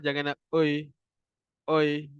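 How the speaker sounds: oi said lazily, tongue only moving; wrong lazy oi. Shown as a demonstration. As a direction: show the lazy oi mistake. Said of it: "jangan nak malas-malas".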